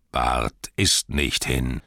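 slow, deliberate strong voice; Bard announcing. Acted. Bard steps from shadows to the crowd, slow and firm. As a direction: reveal yourself slowly. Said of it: "rief er".

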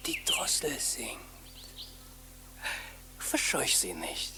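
husband hushing his wife to hear the thrush; hushed listening. Acted. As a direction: whisper so the bird stays.

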